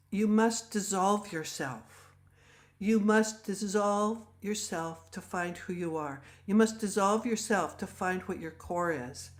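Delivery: slow, measured pronouncement; a proper lady's grave advice, lightly voiced; solemn counsel. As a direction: deliver it slowly like a sage. Retold proper woman's solemn counsel.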